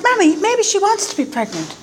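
high-pitched daughter's protest; pleading daughter. Retold or imitated. Daughter standing up for a pregnant stranger, high-pitched plea. Acting young self answering mother.

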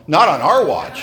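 firm, defiant declaration; punchy protective vow; mock-heroic vow. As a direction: refuse it with comic resolve. Vows to save the deer.

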